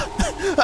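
high-pitched imitated giggle; mocking giggle. Player copying the character's giggle, mocking imitation. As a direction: mimic the character's odd giggle. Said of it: "giggles like that".

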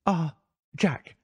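light female character voice, uneasy greeting; a touch of startled unease; lightly voiced wife. A narrator's reading. Wife caught out, greets husband.

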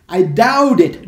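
"I doubt it" loud, run together; linked pronunciation. Shown as a demonstration. Teacher models "I doubt it", loud and linked. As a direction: hit "doubt" and slide its t into "it". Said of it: "vai pegar a última consoante".

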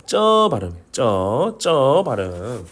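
쩌 with a tense, unaspirated j; hard ㅉ at the start of 쩌; drawn-out 쩌, tight at the onset; tense double jieut. Shown as a demonstration. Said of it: "쌍찌읒 발음".

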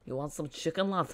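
bad second-hand Scouse accent; Fabinho. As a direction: mimic a foreigner attempting a Scouse accent. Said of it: "Fabinho doing an impression of a Scouse accent".

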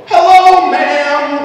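high, loud polite greeting; customer service voice. Retold or imitated. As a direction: switch to sweet service voice. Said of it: "that's your customer service voice?".

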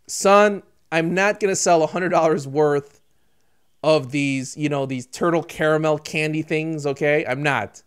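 put-on low, subdued parent talking to a child; parent reasoning with son. Parent refusing to sell turtle caramel candy, low and firm. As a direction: lay it down to your son, low and quiet.

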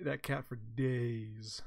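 slow, hushed whisper on "that cat for days"; whispered aside. Real, not acted. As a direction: breathe it out softly like a private aside. Fond aside about the cat.

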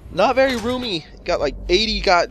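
a hammed-up stand-up whine; Jerry Seinfeld. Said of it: "That's my awful Jerry Seinfeld impression".

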